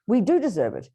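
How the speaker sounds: matter-of-fact, a light stress on "do", no weight on "deserve"; without heaviness. Shown as a demonstration. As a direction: say "We do deserve it" plainly, taking the weight out of "deserve". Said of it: "I'll say it without the heaviness".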